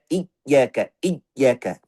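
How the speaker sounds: "iyaka" broken after the first syllable, "iy-yaka"; closed-off makhraj. Shown as a demonstration. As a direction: shut off the y of "iyaka" before releasing it. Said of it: "Tutup makhrajnya".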